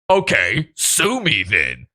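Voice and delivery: lightly voiced smug defiance; mocking Mersh. Host imitating Mersh daring the lawyer, lightly mocking smug defiance. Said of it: "Mersh is on the episode going".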